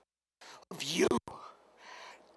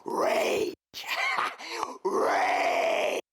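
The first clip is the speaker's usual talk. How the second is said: shouting. Acted. Wrestling promo, shouted catchphrase.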